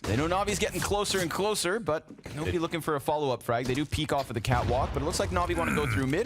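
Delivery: energetic esports casting, pitch climbing on big moments; live play-by-play. Real, not acted. Caster calls the push for viewers, live play-by-play. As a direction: call the action as it unfolds.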